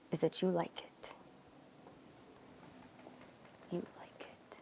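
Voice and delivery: very soft, sinking to a bare whisper; whispered taunt. Acted. Telling Daisy her secret shame, whispered taunt. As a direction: needle her, fading almost to nothing.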